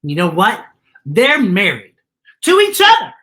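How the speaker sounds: put-on high, loud, thrilled child voice; bursting with the big news, climbing high at the end; a little girl too excited to hold it in. A narrator's reading. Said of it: "starting to get very excited".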